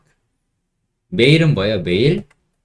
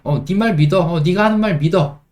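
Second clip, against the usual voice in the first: light casual tone; 6 semitones higher, faster than usual. Shown as a demonstration. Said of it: "in이 없으면 약간".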